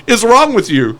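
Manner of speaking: drawn-out, high-pitched indignant rant; mock-furious and slow, leaning on the swear; angry outburst. Brother chewing out his friend after the robbery, angry. Brother rages at reckless driver.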